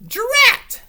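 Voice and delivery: high, loud sharp Drat; cross exclamation. Acted. Witch cursing her stuck pumpkin, annoyed. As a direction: spit it out, frustrated. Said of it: "said the witch".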